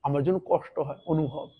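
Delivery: soft and sinking, a tree telling its pain; softly voiced wounded tree; hurt tree's voice. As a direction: speak low and hushed, as if hurting. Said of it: "তখন বলে".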